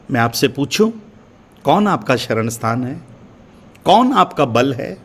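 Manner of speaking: ordinary delivery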